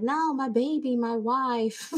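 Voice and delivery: high, fumbling mock stammer voice; mock flustered man. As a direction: pitch it up like a nervous guy. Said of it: "He's like".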